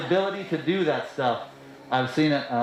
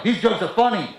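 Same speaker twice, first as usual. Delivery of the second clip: upset at the crowd; 5 semitones higher, 3 dB louder than usual. Retold or imitated. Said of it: "I got really upset about it".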